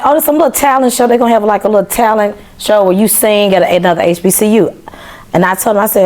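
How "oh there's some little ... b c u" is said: higher and quick, brushing it off; breezy dismissive. Retold or imitated. Imagining a little talent show, breezily dismissive. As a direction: toss it off as no big deal. Quoting her own dismissive thought.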